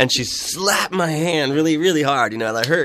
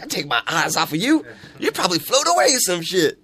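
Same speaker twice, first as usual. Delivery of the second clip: lightly imitated woman; 5 semitones higher than usual. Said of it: "She was like".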